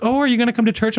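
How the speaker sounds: high-pitched imitation of a friendly invitation; eager missionary. Missionary inviting a passer-by to church, eager.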